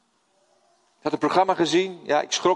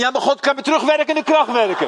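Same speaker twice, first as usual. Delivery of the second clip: higher and louder, laughing through the words; laughing punchline; 11 semitones higher, 6 dB louder than usual. Real, not acted. Preacher quoting Martin's reply to his wife, laughing hard. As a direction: deliver the punchline while still laughing.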